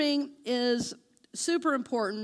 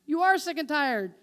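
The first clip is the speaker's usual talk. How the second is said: Spirit answering; 3 semitones higher, 4 dB louder than usual. Pretend. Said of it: "Spirit says".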